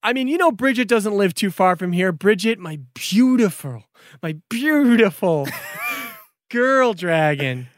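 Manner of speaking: high, gushing apologetic dragon; lovestruck dragon Brandon. Acted. Dragon Brandon apologizes to friends, lovesick. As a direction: swoon about his love.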